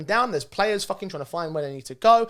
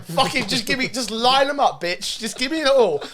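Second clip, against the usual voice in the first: put-on higher, louder jokey Russian-accented demand; mock Russian accent; 6 semitones higher, 6 dB louder than usual. Commentator demanding drinks from the barman, in a mock Russian accent. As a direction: keep the hammed-up Russian accent, pushing for drinks. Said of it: "I was like".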